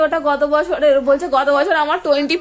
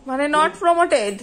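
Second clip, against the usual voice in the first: "promoted" drawn out slowly; slow reading; much slower than usual. Shown as a demonstration. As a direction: read "not promoted" very slowly. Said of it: "mother reads it out slowly".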